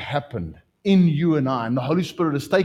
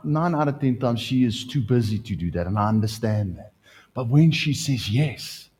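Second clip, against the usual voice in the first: normal talking voice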